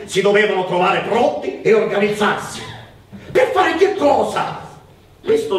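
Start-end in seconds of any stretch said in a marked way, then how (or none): 3.3-4.7 surprised. Acted. Women gossiping about secret plans.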